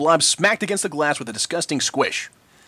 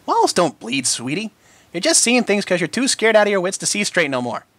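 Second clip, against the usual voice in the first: scoffing; 3 semitones higher than usual. Acted. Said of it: "Apple Bloom scoffed".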